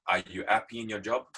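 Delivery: imitating a boss's thick French accent. Boss putting the life-changing question to Leon, French accent. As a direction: ask it as a French boss would. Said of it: "I'm gonna try and do a French accent now".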